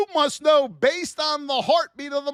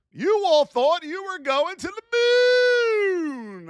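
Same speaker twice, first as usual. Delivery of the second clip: drawn-out mocking sing-song, pitch raised; 5 semitones higher, 3 dB louder, slower than usual. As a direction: tease them for dreaming of the moon. Mocking traders' Oracle hopes.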